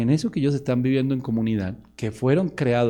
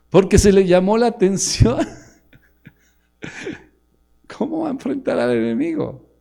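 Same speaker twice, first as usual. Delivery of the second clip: full-force preaching; 7 semitones higher, 7 dB louder than usual. Acted.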